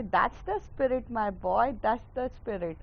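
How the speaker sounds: drawn-out, slow pep talk; slow encouraging cheer. Acted. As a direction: stretch it out like a proud buddy. Cheering a friend up. (धीमे खिंचे स्वर में हौसला बढ़ाते हुए)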